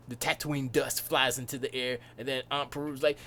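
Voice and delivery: normal talking voice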